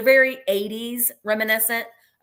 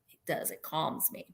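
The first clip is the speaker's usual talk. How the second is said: soothing whisper; 6 semitones lower, 12 dB quieter than usual. Shown as a demonstration. Seller whispering how the yellow and green calm her. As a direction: whisper it as if the color soothes you.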